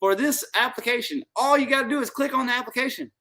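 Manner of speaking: high, fast, wired; buzzing on Cuban coffee; too much caffeine. Real, not acted. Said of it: "I'm a little wired because".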